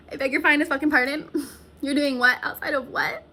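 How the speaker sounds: incredulous, laughing through the words; fast, laughing can't-believe-it; laughing disbelief. Real, not acted. Reacts to the tow man.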